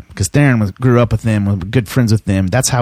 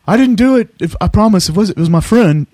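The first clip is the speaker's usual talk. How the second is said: mock panicked denial; 8 semitones higher than usual. Caught man blurting excuses to Dime.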